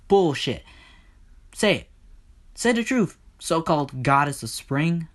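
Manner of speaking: high, impatient taunting; demanding Hades. Acted. Hades demands that Persephone say the truth, impatient.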